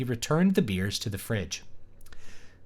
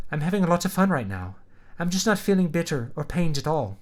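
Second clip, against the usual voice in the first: put-on Irish accent; 5 semitones higher than usual. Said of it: "she's Irish today".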